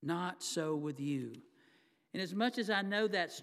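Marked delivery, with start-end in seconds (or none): 0.0-1.3 "Not" leaned on, slow and falling; slow stress on not. Shown as a demonstration. Preacher driving home Jesus's words, slow with stress on "Not". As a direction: press on "Not" and let the phrase fall slowly. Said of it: "let those four words kind of sink in".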